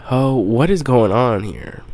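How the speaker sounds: like a startled bystander calling out; alarmed reaction. Retold or imitated.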